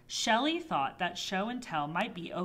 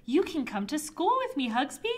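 higher-pitched, lively announcement; announcing; 6 semitones higher than usual. A narrator's reading. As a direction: announce it brightly to a pet monster, pitch lifted. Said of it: "Shelley announced".

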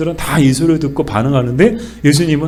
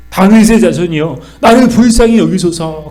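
loud, higher, desperate cry for mercy; pleading shout; 4 semitones higher, 5 dB louder than usual. Acted. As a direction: cry out to him from the crowd. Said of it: "막 소리치면서 나오는 거야". (예수께 매달리는 가나안 여인의 간절한 외침)

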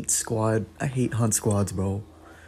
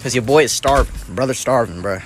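loud; 7 dB louder than usual. Real, not acted. Hungry, calling out loudly.

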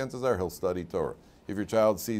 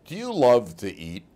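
lightly voiced little boy, slow and a touch louder; child's curious question; 3 semitones higher, 6 dB louder than usual. Little son asks father at supper, slow and curious. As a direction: ask it like a curious six-year-old. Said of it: "he says to me".

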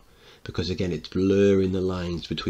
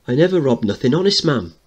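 put-on child voice; 7 semitones higher, 7 dB louder than usual. Sammy protesting to mother.

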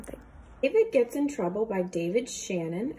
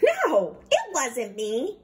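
put-on child denial; 4 dB louder, slower than usual. David denies.

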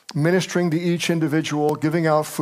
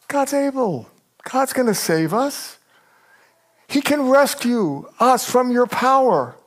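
defiant and bold; 8 semitones higher than usual. Acted. Voicing the three defying king.

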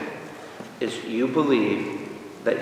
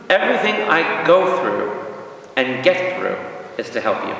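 repeated verse. Shown as a demonstration. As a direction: restate it, easing down to the end. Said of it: "Push the repeat button".

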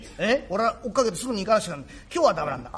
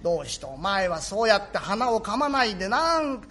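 nagging mother. Acted. Mother fussing at her son for playing late, lightly voiced. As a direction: nag the boy home to help.

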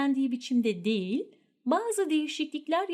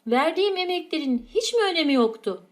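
reproachful; 3 semitones higher, 5 dB louder than usual. Acted. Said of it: "sitem cümleleri".

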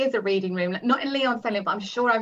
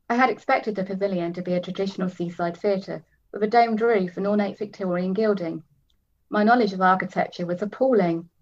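steady reading of a novel; story narration. A narrator's reading. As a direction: read it like an audiobook. Reads novel aloud.

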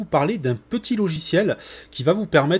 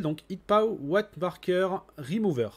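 self-mocking French accent on an English name; 3 semitones higher, slower than usual. Real, not acted. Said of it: "avec mon magnifique accent anglais".

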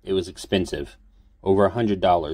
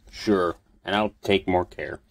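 slow words through clenched teeth. Acted. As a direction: force it through gritted teeth. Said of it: "between clenched teeth".

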